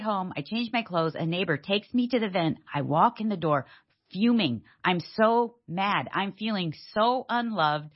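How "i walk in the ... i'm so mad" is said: usual speaking voice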